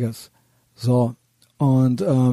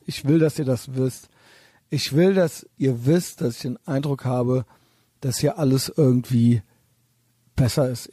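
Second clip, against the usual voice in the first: tipsy, words running together a little; slurred speech. Real, not acted. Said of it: "falls ihr mich so leicht slurry hört, so leicht lallend".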